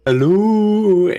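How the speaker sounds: high called hello; calling into tree. Retold or imitated. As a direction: call up the hollow trunk. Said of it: "You see Tali kind of".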